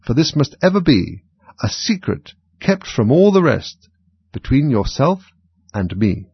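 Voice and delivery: measured, lilting verse reading; verse recital. A narrator's reading. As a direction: recite the rhyme with deliberate, swooping stresses.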